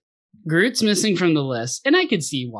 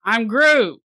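higher, louder Groot line like a movie cop; Tommy Lee Jones cop voice; 9 semitones higher, 4 dB louder, slower than usual. Retold or imitated. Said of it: "He says it like he does when he plays, like, a cop in a movie".

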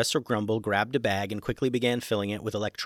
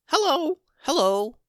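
very high, louder squeaky greeting; squeaky guinea pigs; 5 dB louder than usual. Acted. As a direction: chirp hello like excited tiny guinea pigs. Guinea pigs try their voices.

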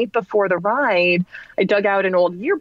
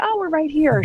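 excited call; 9 semitones higher than usual. Retold or imitated. Calling out to the instructor.

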